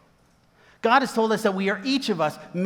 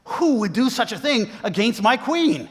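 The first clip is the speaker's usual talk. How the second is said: higher-pitched mock outrage; hammed-up royal indignation; outraged; 4 semitones higher, 4 dB louder than usual. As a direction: act out an indignant king, demanding an answer. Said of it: "the king's outraged".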